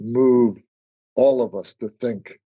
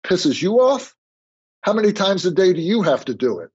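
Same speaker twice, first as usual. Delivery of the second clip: retold yell; 6 semitones higher than usual. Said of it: "he yelled at me".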